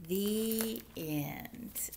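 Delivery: soft slow closing words; softly spoken. Shown as a demonstration. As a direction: say it softly, drawn out. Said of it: "Can you say the end".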